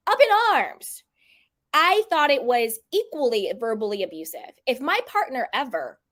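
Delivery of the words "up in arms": high breathy whisper of the phrase. Shown as a demonstration. Repeating the phrase to viewers as a hushed whisper. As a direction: breathe the words out, no voice. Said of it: "We would have been up in arms".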